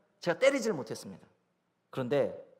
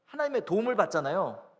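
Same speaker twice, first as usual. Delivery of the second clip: normal talking voice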